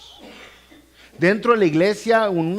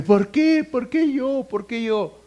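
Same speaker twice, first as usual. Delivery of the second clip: whiny why me; 7 semitones higher, slower than usual. Retold or imitated. Preacher mocking a believer who whines at God, high-pitched.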